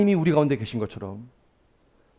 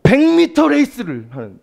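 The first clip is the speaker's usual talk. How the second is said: higher and louder, pressing forward; an eager, racing retelling of the same phrase; emphatic burst; 9 semitones higher, 6 dB louder than usual. Shown as a demonstration. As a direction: push it out like a sprinter leaving the blocks. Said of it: "넘어질 것처럼 그렇게 전심과 전력으로".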